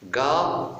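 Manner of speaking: "Garage" stretched out syllable by syllable, with pauses; split into syllables. Shown as a demonstration. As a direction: read "Garage" slowly in separate syllables. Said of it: "si je découpe le mot". (« Garage » découpé lentement, syllabe par syllabe)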